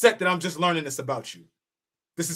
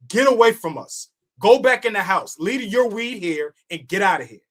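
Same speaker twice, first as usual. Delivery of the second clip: raised, louder mock send-off; mock dismissal; 4 semitones higher, 4 dB louder than usual. Veteran roller turning away novices in the cipher, mock dismissive. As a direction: shoo them off, pitched up.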